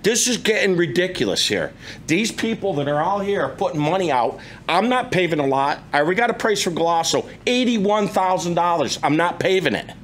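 real rising irritation; exasperated, insistent protest; getting pissed. Real, not acted. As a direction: argue your case, fed up. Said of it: "And I'm getting pissed".

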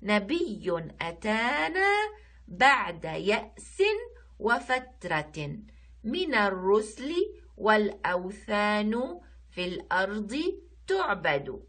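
slow, measured verse reading; poem recitation. Shown as a demonstration. Teacher reading the nashid to pupils, slow recitation. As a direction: recite the line slowly, word by word. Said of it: "حنقرأ النشيد".

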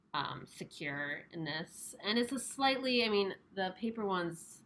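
muffled behind mask; speaking with covered mouth; through a face mask. Real, not acted. Seen 3: Mask covers mouth and nose throughout; references show no mask.

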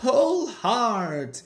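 high, falling heaves of effort; puffing. A narrator's reading. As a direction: heave each phrase out like a straining engine. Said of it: "puffed Edward".

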